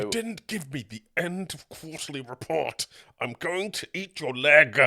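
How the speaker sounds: lightly voiced pompous posh boss; a hint of a posh menacing boss; Matt Berry voice. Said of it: "amazingly like the posh man from I T Crowd".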